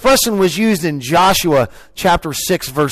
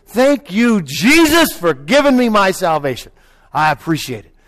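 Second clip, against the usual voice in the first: joyful praise; 3 semitones higher than usual. Acted. Preacher showing the congregation how to praise, joyful. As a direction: cry out thanks, acting it out. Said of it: "that's, that's joy".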